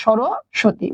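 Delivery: drawn out very slowly while writing; slow spelling demo. Shown as a demonstration. Teacher spelling a word for students, very slowly drawn out. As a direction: stretch each syllable for the class. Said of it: "এই যে আমরা খেয়াল করে দেখি".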